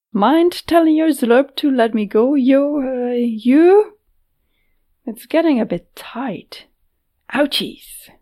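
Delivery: a cheeky captive playing it light; young woman voice. Nedek speaking while held.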